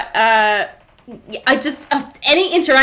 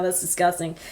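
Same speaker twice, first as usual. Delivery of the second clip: usual speaking voice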